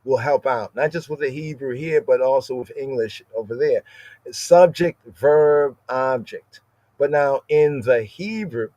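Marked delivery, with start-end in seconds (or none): 4.3-6.6 Subject and verb punched loud, object falling; emphatic listing; stressed word order. Shown as a demonstration. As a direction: tick off each word of the order. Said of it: "So in English".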